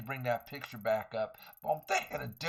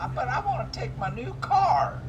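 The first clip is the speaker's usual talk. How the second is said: loud urgent stage whisper, higher; 8 semitones higher, 6 dB louder than usual. Acted. Player whispering which car to take, urgent stage whisper. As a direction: whisper it like a sneaky argument with yourself.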